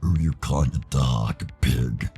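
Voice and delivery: mild snarling challenge; irritated comeback, lightly acted; angry retort. Tyson snarls in a quarrel.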